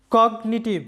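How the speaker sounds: কগনিটিভ with g sounded, "cog-ni-tiv"; কগনিটিভ, g pronounced; English word cognitive. Shown as a demonstration. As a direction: model কগনিটিভ clearly. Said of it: "লক্ষ্য করো".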